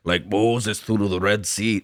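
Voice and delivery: Braveheart Scottish. Pretend. Cohost quoting Braveheart, slow, lightly Scottish. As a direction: quote Braveheart in a mild mock Scottish brogue. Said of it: "I'm trying to just do Braveheart quotes".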